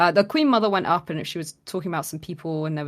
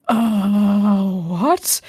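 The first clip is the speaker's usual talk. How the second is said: high, startled question; shocked; 3 semitones higher, 6 dB louder than usual. Retold or imitated. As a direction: react in sudden shock. Told she will die.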